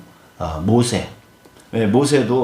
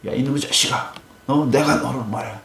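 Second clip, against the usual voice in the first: higher-pitched mock telling-off; mock angry scolding; 5 semitones higher than usual. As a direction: pretend to be cross, pitch raised. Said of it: "막 화를 내거나".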